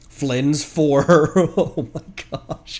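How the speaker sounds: giggling slowly through the team plan; can't stop laughing while explaining; laughing through words. Real, not acted. Streamer laughing at his own team idea, giggling.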